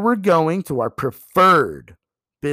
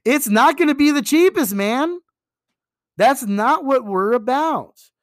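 bright, much higher, frank and upbeat; upfront to customer; 9 semitones higher, 3 dB louder than usual. Shown as a demonstration. Agent telling a customer the price up front, frank and upbeat. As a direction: tell it straight, with a grin in the voice. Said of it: "Don't be afraid to tell your customers right up front".

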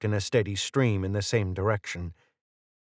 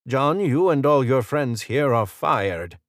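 softened assertive; 4 semitones higher, 3 dB louder, slower than usual. A narrator's reading. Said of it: "usual assertive tone was softened by her obvious discomfort".

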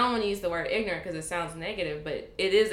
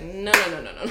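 louder, laughing no-no-no; laughing refusal; 5 dB louder than usual. Retold or imitated. Locals refusing to believe she is African, laughing. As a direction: brush it off with a laugh. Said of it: "they'd be like".

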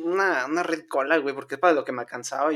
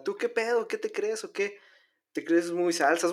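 only a hint of the northern Mexican accent, softer; a milder norteño tough-guy quote; toned-down norteño; 3 semitones higher, 4 dB quieter than usual. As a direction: redo the bully's challenge with the norteño accent pulled back. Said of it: "no, no tanto así".

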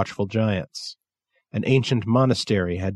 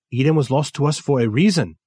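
put-on a lightly higher Japanese-accented voice; hint of Kensuke's accent, raised a little; 4 semitones higher, 3 dB louder than usual.

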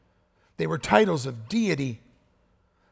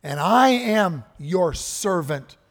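loud, slow and higher, each line proclaimed; fervent declaration; 3 semitones higher, 7 dB louder, slower than usual. Retold or imitated. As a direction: proclaim it as a servant to his king. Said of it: "Thomas is saying".

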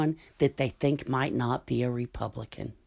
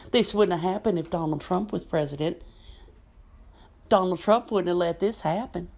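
higher mock fan voice; mocking Trump fan; 4 semitones higher than usual. Vlogger parrots supporters' claim in a higher mocking voice. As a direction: parrot the slogan with a sneer.

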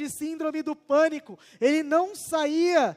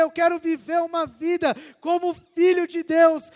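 fervent retold prayer; 3 semitones higher, 5 dB louder than usual. The driver's prayer retold to the passenger, fervent and loud. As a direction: plead with God as if at rock bottom.

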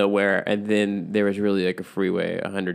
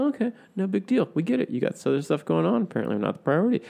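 sarcastic; 8 semitones higher, 3 dB quieter, faster than usual. Pretend. Sarcastic hurt about guest.

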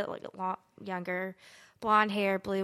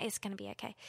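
acted-out quiet inner pep talk; retold self-reassurance; 2 semitones lower, 14 dB quieter, much faster than usual. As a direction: murmur it quietly to yourself.

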